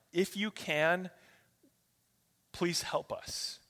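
slow, soft, hesitant request; hushed, halting plea; subdued pleading. Acted. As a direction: beg gently, drawing out the words. Father begging Jesus for his son.

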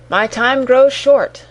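slow, eerie spirit voice; a hint of a ghostly warning; unearthly voice. A narrator's reading. Ghost warns its time is short.

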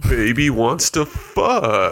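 very slow, gas-deepened, laughing; heavy gas voice. Real, not acted. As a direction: drag the words out on the gas. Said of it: "even his deep voice".

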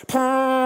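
long, high horn blast; imitated shofar blast. Old lady sounds her shofar, imitated blast. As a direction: sustain it like a ram's horn trumpet. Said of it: "she just goes".

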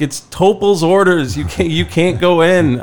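tag usher. Retold or imitated. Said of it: "we had to be like".

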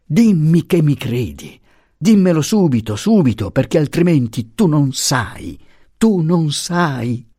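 high, urgent anguished pleading; supplica straziata. A narrator's reading. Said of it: "supplicò straziata". (supplica accorata e angosciata)

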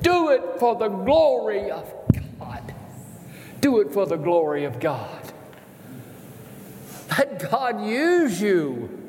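urging the congregation with rising force; fervent sermon exhortation; impassioned preaching. Acted. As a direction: drive each phrase home, then draw it out.

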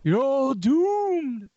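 slow ominous raspy drawl; high, slow doomsayer warning; Crazy Ralph voice. Shown as a demonstration. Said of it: "so do someone do the voice".

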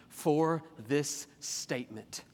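slow, drawn-out reading of the verse; lingering paraphrase of the verse; drawn-out quote. Shown as a demonstration. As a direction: stretch out "For this statement". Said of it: "What is the words he actually uses?".

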